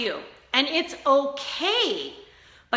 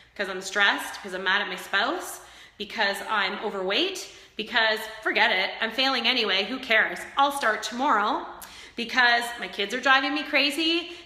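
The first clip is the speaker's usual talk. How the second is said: imitated spiraling self-talk; 3 semitones lower, 3 dB quieter than usual. Viewer mocked as an emotional eater, trailing off softly. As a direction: voice sinking and fading as the excuses pile up. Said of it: "And then I'm like".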